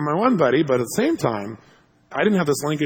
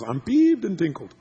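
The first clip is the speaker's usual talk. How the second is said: mild peeve; 4 semitones higher, slower than usual. Retold or imitated. Imitates mild buddy.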